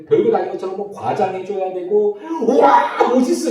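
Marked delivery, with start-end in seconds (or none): 2.5-3.5 higher, louder, overdone wow; exaggerated gush. Shown as a demonstration. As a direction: fawn over it theatrically. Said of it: "호들갑을 떨어주면서". (호들갑 떨며 감탄하는 시범)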